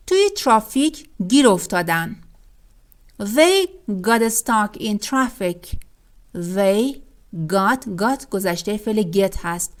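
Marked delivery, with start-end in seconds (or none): 3.2-5.8 very slow, words spaced apart; slow example reading. Shown as a demonstration. Teacher reading the example to the class very slowly. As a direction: lay out each word for learners.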